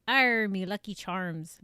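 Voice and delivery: loud, drawn-out mock accent on the cereal catchphrase; mock Lucky Charms accent. Shown as a demonstration. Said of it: "that's not even an accent".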